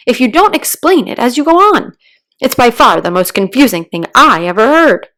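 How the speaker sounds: loud, fast exasperated outburst. Acted. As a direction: blurt it out in frustration. Mock Turtle interrupts, exasperated.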